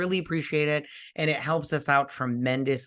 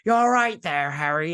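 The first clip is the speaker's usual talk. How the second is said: Hagrid voice; 3 semitones higher, 5 dB louder than usual. Retold or imitated. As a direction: boom it out like a big friendly giant. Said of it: "if you do Hagrid's voice".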